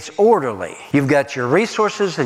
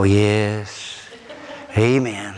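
wife's dry amen; 8 semitones lower, much slower than usual. Retold or imitated. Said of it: "my wife would go".

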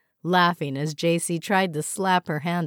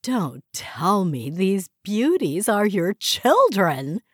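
gushing admirer; 3 semitones higher, 3 dB louder, slower than usual. Acted. Val gushing over twins.

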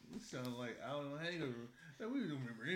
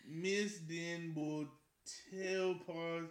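very slow, halting mock French; attempted French accent; much slower than usual. Introducing wine in best French voice, halting French accent. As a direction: sound out the label slowly in bad French. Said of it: "in my best".

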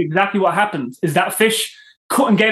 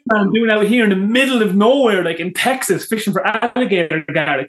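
amazed Texan stranger; 3 semitones higher than usual. Retold or imitated. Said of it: "It's like".

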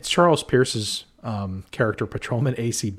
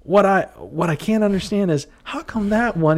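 teasing; 10 semitones higher, 4 dB louder than usual. Retold or imitated. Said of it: "Mal Griffin indicating Benson's fake breasts".

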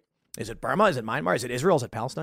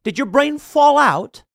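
incredulous; 5 semitones higher than usual. Retold or imitated. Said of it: "And I'm just like".

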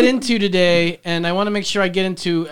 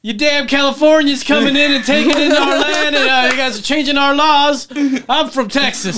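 higher, louder, grumpy Texan; mock native Texan; 5 semitones higher, 3 dB louder than usual. TikTok bit about locals, higher grumpy gripe. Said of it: "five years in".

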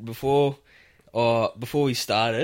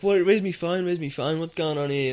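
mildly startled, higher-pitched self-quote; startled confusion; 6 semitones higher than usual. Retold or imitated. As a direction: act out waking up confused. Acts out waking up confused.

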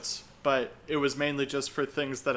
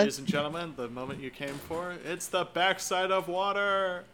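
Jungle Cruise skipper voice; 2 semitones higher, 6 dB quieter than usual. Acted. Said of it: "What's a good Jungle Cruise joke?".

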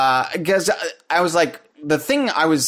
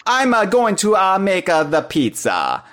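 stereotypical Italian Mario; 7 semitones higher than usual. Retold or imitated. Host mocks the stereotypical Mario line for his co-host, light mock Italian accent. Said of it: "doing the very stereotypical".

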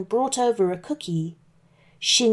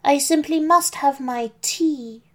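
put-on higher prim old lady voice; old granny voice; 5 semitones higher than usual. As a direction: keep up the fake granny. Wolf as Granny.

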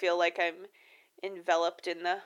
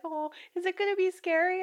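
mom voice; 11 semitones higher than usual. Retold or imitated. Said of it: "And she's like".

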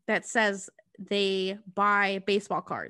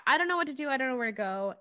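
puppy dog plea; 3 semitones higher, much faster than usual. Retold or imitated. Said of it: "very puppy dog".

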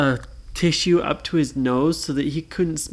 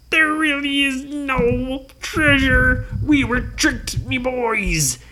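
dismayed captain; 8 semitones higher, slower than usual. Acted. Blackbeard admits defeat.

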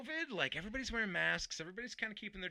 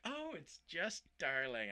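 mock doting coo; 3 semitones higher, slower than usual. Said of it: "I'm like".

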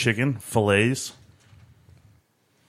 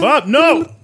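loud protest; 8 dB louder than usual. Pretend. Calling out in protest.

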